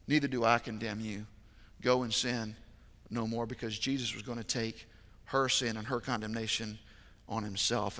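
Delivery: hushed and tender. Acted. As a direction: drop to a hush for the words of Jesus. Quiet, tender retelling of Jesus.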